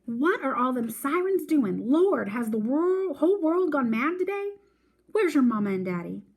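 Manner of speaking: a grandmother startled by sirens; alarmed grandmother. A narrator's reading. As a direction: grandmother crying out to the Lord. Grandma Sands hears sirens.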